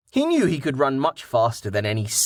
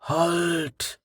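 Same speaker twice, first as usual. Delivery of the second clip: challenge; 5 semitones higher than usual. A narrator's reading. Hidden archer calls out a challenge.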